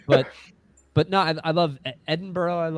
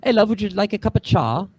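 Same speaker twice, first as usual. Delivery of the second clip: higher, louder put-on Yorkshire accent; 7 semitones higher, 6 dB louder, faster than usual. Shown as a demonstration. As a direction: greet them in a broad mock Yorkshire accent. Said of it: "a Yorkshire accent, you'd be like".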